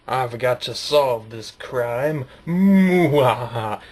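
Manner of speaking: slow, solemn hero voice; mock detective. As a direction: play the brave detective. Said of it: "And then I was all like".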